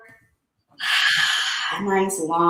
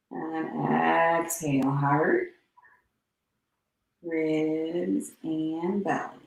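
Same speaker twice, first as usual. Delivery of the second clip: guided breathing. Acted. Yoga teacher guiding class through breathing. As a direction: ease them into the breath, unhurried.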